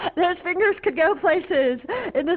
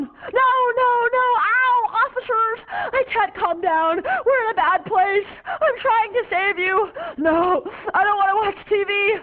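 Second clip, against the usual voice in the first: panicked protest; 4 semitones higher than usual. Acted. Girl protests being taken.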